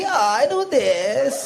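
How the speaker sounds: imitating a viral reel's drawn-out English accent; hammed-up viral-video accent. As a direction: stretch the vowels in a mock reel accent. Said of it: "वो Insta पे reel देखी".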